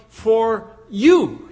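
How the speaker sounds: "for you" set apart, with "you" leaned on; stress on "for you". Shown as a demonstration. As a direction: lean on "you" in "for you". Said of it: "the emphasis is on the words".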